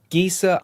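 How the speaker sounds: "Giesa" with an added final a; alternative pronunciation. Shown as a demonstration. Narrator offering a third guess at a surname, alternative pronunciation "Giesa". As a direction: say "Giesa" in two syllables, ending on a. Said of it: "not exactly sure how you pronounce it".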